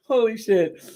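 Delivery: high, laughing holy shit; amused exclamation. Real, not acted. Host to viewers, laughing at her own goof, high exclamation.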